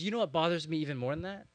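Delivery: imitated rant. Pastor retelling his bicycle messenger friend's tirade, imitated rant. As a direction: act out a friend working himself up, quickly. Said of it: "he's on this rant".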